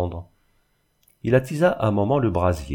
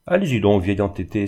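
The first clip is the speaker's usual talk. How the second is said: a mild exasperated cry, louder at the start; exasperated outburst; 3 dB louder than usual. Acted. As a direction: snap it out, pushed to the limit. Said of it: "s'écria-t-elle poussée à bout". (exclamation excédée, légèrement plus forte)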